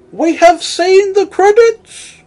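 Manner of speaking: high, theatrical Churchill-style oration; hammed-up heroic proclamation; mock grand speech. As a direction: ham up a rousing wartime speech.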